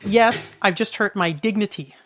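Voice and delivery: slow, deliberate mock reply; retold mom's answer. Mom answers her worried child, imitated slow reply. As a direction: say it slowly, landing on "dignity". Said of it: "she says to me".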